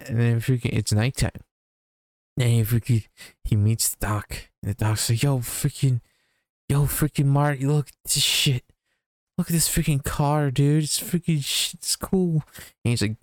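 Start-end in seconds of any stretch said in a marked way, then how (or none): 5.2-12.4 higher, excited dude-speak Doc; hyped-up Doc. Retold or imitated. Doc shows Marty the car, higher hyped bragging. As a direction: brag about the car like a stoked teen.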